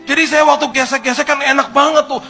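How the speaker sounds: loud, very high-pitched distraught rant; nangis-nangis. Retold or imitated. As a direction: act out a wailing confession full of grievance. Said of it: "Ambil nangis-nangis". (menirukan curhat histeris sambil menangis, keras dan tinggi)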